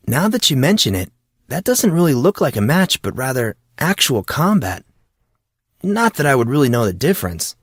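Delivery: a hint of an eager, clueless friend; curious young Monson. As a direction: ask it like a naive newcomer. Monson watches the match.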